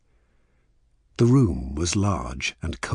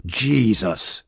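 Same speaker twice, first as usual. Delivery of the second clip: loud, high cry of dismay; alarmed shout; 4 semitones higher, 5 dB louder than usual. A narrator's reading. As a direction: shout it in sudden shock. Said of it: "he shouted".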